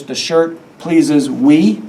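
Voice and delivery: slow, questioning "The shirt pleases we" with a rise on "we"; deliberately wrong version. Shown as a demonstration. Teacher to class, trying out the wrong grammar slowly. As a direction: drag out "pleases we" as if testing it. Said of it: "Is that how we would say it? No".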